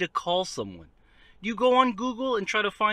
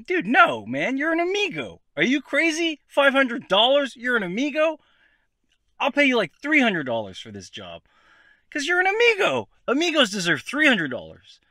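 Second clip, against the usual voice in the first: hypothetical racist lowball rant; 4 semitones higher than usual. Pretend. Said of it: "is what I would say if I was racist".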